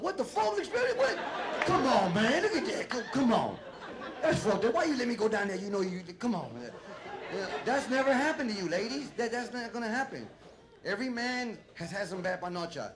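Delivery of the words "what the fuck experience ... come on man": the guy popping up disgusted; outraged guy. Acted. A guy after going down on a woman, in hammed-up disgust. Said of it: "the guy jumps up".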